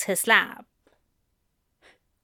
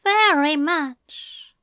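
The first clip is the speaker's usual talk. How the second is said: slow admission; 6 semitones higher, 3 dB louder, slower than usual. A narrator's reading. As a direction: admit it slowly and tenderly. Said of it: "Aziraphale admitted".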